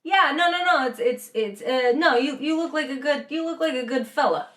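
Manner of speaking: lightly imitated New England greeting; a hint of New England local; casual New England impression, downplaying the welcome; New England accent. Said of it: "Whereas New England would be like".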